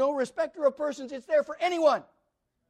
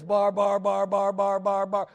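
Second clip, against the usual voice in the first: imitating foreign babble, bar bar; mock the barbarians' speech sounds; mock babbling; 5 semitones lower than usual. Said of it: "They just talk like this".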